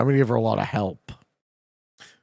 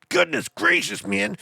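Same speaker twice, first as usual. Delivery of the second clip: mock surprise; 8 semitones higher than usual. Mock dismay at chat.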